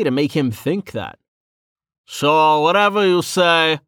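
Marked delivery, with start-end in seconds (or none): 2.0-3.8 laughing. A narrator's reading.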